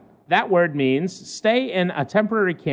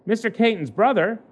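measured newspaper read-aloud; lightly performed human-interest news read; news story read; 2 semitones higher than usual. Acted.

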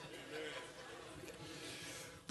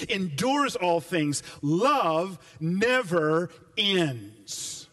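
slow, measured scripture reading. Acted. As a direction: read each line as sacred text. Reads scripture slowly.

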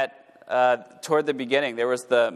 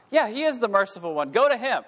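mock crowd reply; 8 semitones higher than usual. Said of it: "what's their response".

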